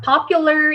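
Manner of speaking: popular with the first syllable punched; stress on first syllable. Shown as a demonstration. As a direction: lean on the O at the start of popular. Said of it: "이름절 오해 강세". (popular의 첫 음절 o에 강세)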